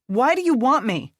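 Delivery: high, loud fighting demand; furious question mid fight; angry demand. Acted. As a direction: press him hard for an answer.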